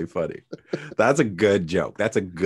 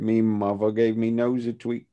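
put-on Dick Van Dyke style Cockney; bad Cockney accent; 3 semitones higher than usual. Quoting Dick Van Dyke's Mary Poppins verse, bad Cockney. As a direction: imitate a badly faked Cockney lilt. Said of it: "had the shitty Cockney accent".

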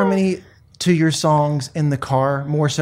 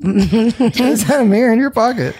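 pickup line voice; 4 semitones higher than usual. Acted. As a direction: lean in and lay it on. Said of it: "I do wanna say".

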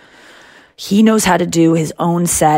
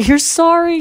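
imitating Jerry; 12 semitones higher than usual. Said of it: "And he was like".

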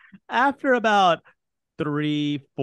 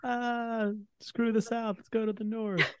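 dismissive giant; 8 semitones higher, 6 dB quieter than usual. Acted. Giants flee north.

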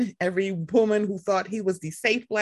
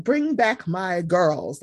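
RuPaul; 4 semitones lower, slower than usual. Retold or imitated. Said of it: "Like I'm fucking RuPaul".

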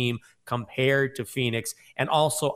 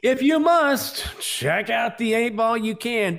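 Yoda voice; 10 semitones higher, 5 dB louder, slower than usual. Pretend. Yoda-style inverted line.

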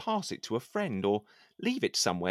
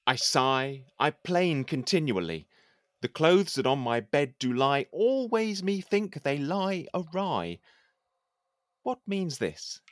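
measured, declaiming poem reading; poem recitation. Acted. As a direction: recite it like a courtly poet. Recites his poem aloud.

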